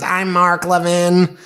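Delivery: slow, lightly voiced Mark Levin; a hint of his radio drawl; Mark Levin impression. Host mimicking a talk-show host, slow and lightly voiced. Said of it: "That's how he talks".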